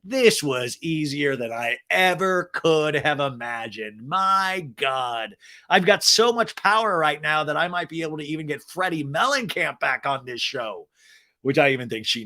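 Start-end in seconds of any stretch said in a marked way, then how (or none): 0.0-10.9 villain reveal. Retold or imitated. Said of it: "drop all of this and go".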